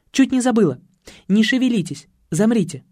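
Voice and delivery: suddenly remember and order them to hold still; суетливая Татьяна. Acted. Спохватившись, Татьяна командует. (суетливым высоким голосом)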